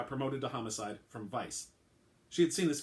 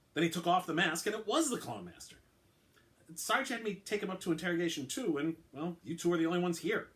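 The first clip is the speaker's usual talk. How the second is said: lightly voiced uniformed officer, reluctant; a hint of a nervous young officer explaining; mildly raised officer voice; officer Cunningham; 6 semitones higher than usual. Cunningham recounts the arrival.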